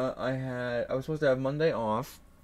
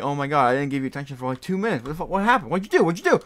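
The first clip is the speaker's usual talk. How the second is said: imitating a coworker's rising panic, faster and louder; freaking out; 3 semitones higher, 5 dB louder, much faster than usual. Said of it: "they start freaking out".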